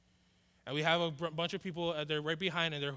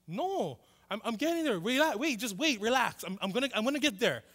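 higher-pitched, flustered protest; flustered stalling; 5 semitones higher, 3 dB louder than usual. Retold or imitated. Scared kid to cousin hurrying him up, flustered stalling. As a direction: beg for more time while putting it off.

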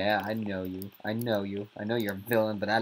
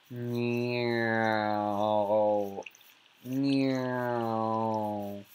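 cat meow. Pretend. Meowing like a cat.

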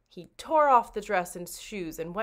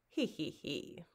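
sly chuckle; 3 semitones lower, 9 dB quieter, slower than usual. Acted. Tiger admires himself in mirror.

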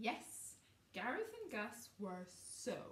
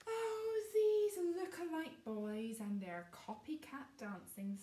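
exasperated exclamation; 7 semitones higher, 6 dB louder than usual. Acted. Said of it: "sighed Kaylee".

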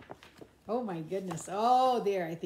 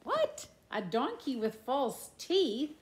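a sudden high "What?" in playful disbelief; surprised; 5 semitones higher, 4 dB louder than usual. Acted. Reacting to a donkey with false teeth, mock surprise. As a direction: play astonished for the children.

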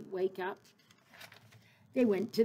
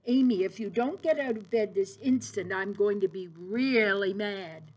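a hint of a stern father, a bit louder; 4 dB louder than usual. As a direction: warn her like a strict dad, slowing at the end. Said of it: "in his sternest father voice".

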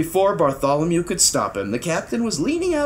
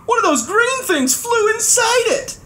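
high, alarmed cry. A narrator's reading. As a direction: cry out in dismay. Trumpeter dismayed.

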